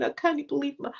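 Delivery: mild mock crying; retold tearful wail. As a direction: imitate yourself lightly whining in tears. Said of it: "oh, crying and going".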